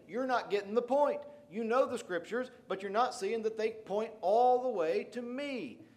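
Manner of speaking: acted reproach, stretching out the final phrase; exasperated rebuke. Preacher as Jesus to scripture experts missing the point, exasperated.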